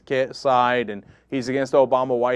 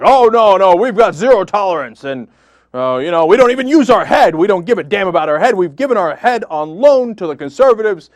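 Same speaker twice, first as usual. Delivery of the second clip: mocking White House; 5 dB louder than usual. Host mocking the White House refusing to rehire Sherrod, loud hammed-up sneer. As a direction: sneer it as bureaucrats hiding behind a rule. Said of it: "they were like".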